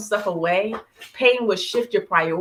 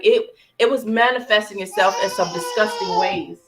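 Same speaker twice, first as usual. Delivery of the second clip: tearful. Real, not acted. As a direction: let the tears leak into it. Tearful confession of envy.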